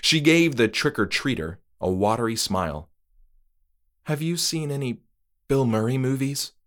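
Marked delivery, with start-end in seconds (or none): 4.1-6.5 hopeful and shaky-smiling; tentative Moira. Acted. Moira watery smile.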